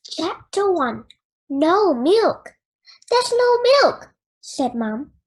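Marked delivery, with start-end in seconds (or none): 1.5-4.1 loud and higher, fed up; mom's angry outburst; exasperated mom. A narrator's reading. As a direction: cry out in exasperation at the empty fridge. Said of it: "as she slammed the fridge door closed".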